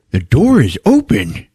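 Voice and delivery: high-pitched insistent retort; hammed-up argument; mock exasperated yell. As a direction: hammer it home in acted alarm. Retold bathroom quarrel continues.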